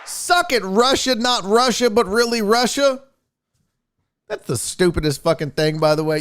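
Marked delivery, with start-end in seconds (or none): 0.1-3.0 1 mocking taunt. Real, not acted. Taunting rival countries.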